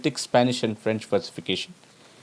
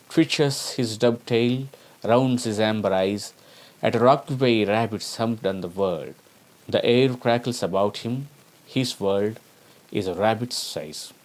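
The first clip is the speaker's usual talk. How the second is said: poem reading. Acted. Reads poem example.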